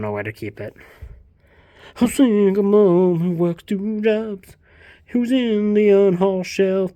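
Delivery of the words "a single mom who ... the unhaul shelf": slow, loud announcer tone; movie trailer voice. Pretend. Introducing the Reba book like a trailer. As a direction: pitch it like a trailer.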